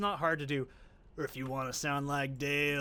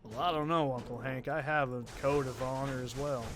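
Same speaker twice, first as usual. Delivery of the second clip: Lucky impression. Lucky tells Uncle Hank about his honor, lightly voiced redneck. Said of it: "Want me to do my Lucky impression?".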